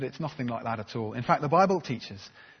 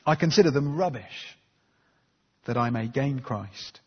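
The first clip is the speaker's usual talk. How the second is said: scripture reading. Acted. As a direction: read the verses with weight. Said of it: "Let me read verses eight and nine".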